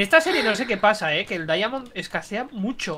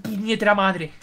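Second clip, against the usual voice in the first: Galician accent. Real, not acted. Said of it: "te ha salido ahí el acento gallego".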